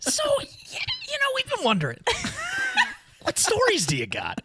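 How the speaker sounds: bubbly chat-show host voice; chirpy TV host, all smiles; morning show host. Acted. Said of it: "Something about that tone and fucking energy".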